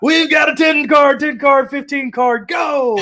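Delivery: loud, high fast-talking auctioneer. Retold or imitated. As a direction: rattle off bids like an auctioneer. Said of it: "salesman slash auctioneer voice".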